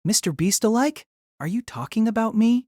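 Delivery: high-pitched, affronted outburst; indignant yelling. Acted. Young man objecting to the girl's nickname, indignant. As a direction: voice jumps up in disbelief. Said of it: "You're yelling at me".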